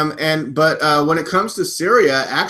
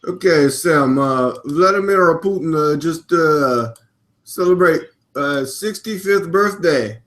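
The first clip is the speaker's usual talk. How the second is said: lightly put-on Russian accent; halting mock Russian English; a hint of Russian impersonation. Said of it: "I'm trying to do a Russian accent".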